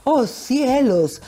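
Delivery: slow, overblown dubbed-soap exclamation; hammy stage actor. Pretend. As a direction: ham it up like old TV dubbing. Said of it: "esas traducciones del Canal cinco".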